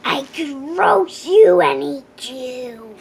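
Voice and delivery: loud, menacing dragon threat; threatening. A narrator's reading. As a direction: lean in and threaten her.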